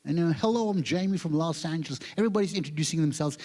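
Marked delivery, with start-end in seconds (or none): 0.3-2.0 mock American self-introduction; Jamie. Organizer greeting yet another comedian, mock American accent. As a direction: imitate an American's proud greeting. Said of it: "He's from Los Angeles".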